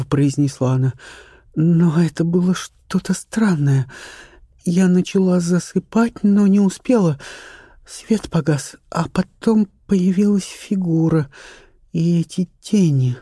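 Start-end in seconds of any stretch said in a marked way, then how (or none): 1.5-13.2 the actress reliving her terror, pitched up; young actress, frightened. A narrator's reading. Charlotte describing the figure.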